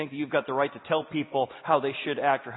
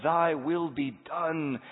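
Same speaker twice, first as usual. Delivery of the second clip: slow surrender; 2 semitones higher, much slower than usual. Acted. Freed man's surrender.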